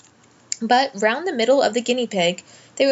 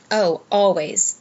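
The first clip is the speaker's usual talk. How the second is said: dreamy; slower than usual. A narrator's reading. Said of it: "dreamy, contented sort of voice".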